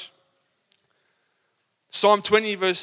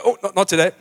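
a louder put-on groaning voice; reluctant passer-by; 2 semitones higher, 4 dB louder than usual. Shoppers dodging a gloomy person, in a mock groan. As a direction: whine like you dread meeting them. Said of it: "they go".

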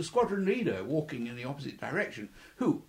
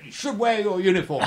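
louder, higher order with a laugh in it; amused order; 6 semitones higher, 6 dB louder than usual. Retold or imitated. Officer telling young pilot to wear uniform, laughing mock order. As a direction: give the order while chuckling.

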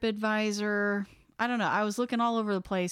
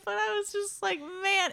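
laughing; 11 semitones higher than usual. Real, not acted. Still laughing at the story.

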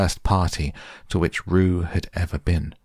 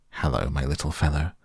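kindly; 2 semitones lower, faster than usual. Acted. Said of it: "in a kindly way".

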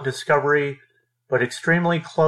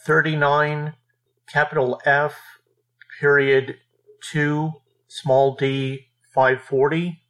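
dictating. Shown as a demonstration. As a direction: read each letter and number out deliberately. Reading out a case citation.

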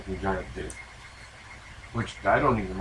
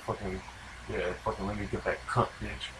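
crude aggressive; 3 semitones lower, 12 dB quieter than usual. Shown as a demonstration. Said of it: "it depends on how you say it".

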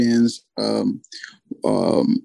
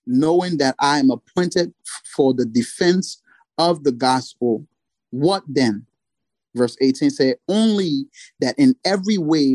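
scripture reading; 3 semitones higher than usual. Acted. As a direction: read it out like a sermon passage. Reads Philippians passage aloud.

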